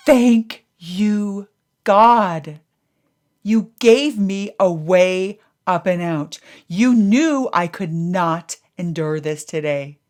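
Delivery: loud, choked grateful prayer; tearful prayer. Retold or imitated. Parked by the road thanking God, tearful and loud. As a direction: pour out thanks through tears.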